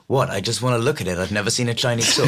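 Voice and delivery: understated, low-key mock movie line; gentle quote. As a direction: read it gently, lightly imitating a film line. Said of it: "like, gentle".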